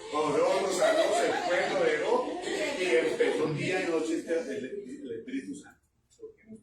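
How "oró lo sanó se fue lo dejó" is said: laughing. Real, not acted. Laughing while retelling the miracle.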